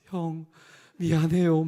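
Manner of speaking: loud mock-sobbing apology, retold; tearful apology. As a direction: imitate wailing sorry to an older brother. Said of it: "이렇게 또 울고".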